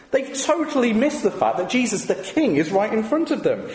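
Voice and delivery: ordinary talk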